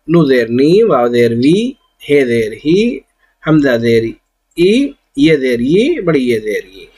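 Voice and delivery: measured recitation, letter name then زیر then the syllable ending in i, like ای, بی, تی; drilling zer sounds. Shown as a demonstration. Teacher drills the class through every letter with zer, measured. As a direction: chant each letter with زیر clearly, landing on the ee sound. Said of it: "symbol اس کی علامت ہے".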